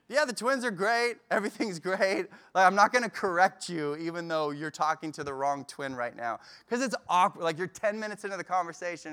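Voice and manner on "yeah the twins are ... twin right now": playing along. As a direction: breezily fake it through the chat. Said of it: "he'll just go with it".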